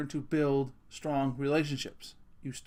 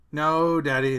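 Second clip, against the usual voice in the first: louder, playfully exasperated refusal; daughter's amused protest; 7 dB louder, slower than usual. Retold or imitated. Daughter laughing at Dad's plea, louder amused protest. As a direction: push back at a teasing dad. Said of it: "she's laughing at me, rolling her eyes".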